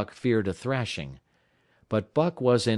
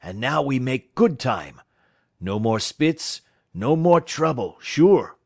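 put-on building higher and louder, French-Canadian accent; pleased and rising to a loud French-Canadian 'sure'; cheerful French-Canadian driver; 4 semitones higher, 6 dB louder than usual. Francois looking forward to good time, French-Canadian accent.

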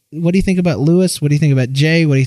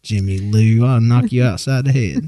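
put-on Southern accent; 4 semitones lower than usual. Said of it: "this is kinda the way I talk".

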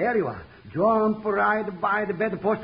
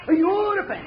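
laughing; 8 semitones higher than usual. Acted. Celebrating, laughing.

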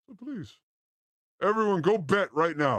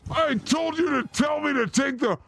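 talking while chewing gum; 7 semitones higher than usual. Real, not acted. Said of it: "I have gum in my mouth".

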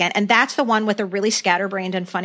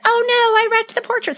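mock dismayed Jan; 14 semitones higher, 3 dB louder, faster than usual. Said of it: "Jan crashes into portrait".

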